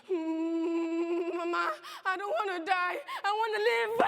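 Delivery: high sobbing screams; terrified screaming. Acted. Girl screaming for her dead mama and her papa, terrified. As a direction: scream for your life.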